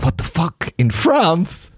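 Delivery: high-pitched, incredulous retold reaction; mock disbelief. Telling friends of a baffling poster in a dream, incredulous. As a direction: rise high in baffled amazement.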